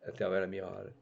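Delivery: usual speaking voice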